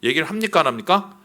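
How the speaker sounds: normal talking voice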